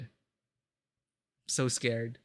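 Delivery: a streamer dreading the next scene, slow and scared; drawn-out scared. Real, not acted. Streamer to chat before a tense reveal, dragged-out and scared. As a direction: stretch every word, very slow and quiet.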